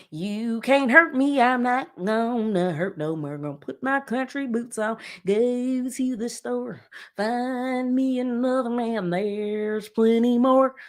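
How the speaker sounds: slow, twangy hammed-up ballad delivery; sing-talk it like an overdone country parody; mock country song. Host imitating the singer's new country track, hammed up. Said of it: "Like that".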